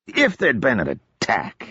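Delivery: slow mock-echo of Marcus's words. Odric mimicking Marcus's warning back at him, slow and mocking. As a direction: parrot it back with light mockery. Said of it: "Odric said mockingly".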